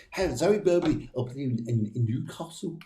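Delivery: put-on a half-hearted stab at a Newcastle Geordie accent; failed Geordie accent. Greeting a viewer from Newcastle in a failed Geordie accent. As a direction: attempt a Geordie accent, not quite landing it. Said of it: "I was trying to do the accent".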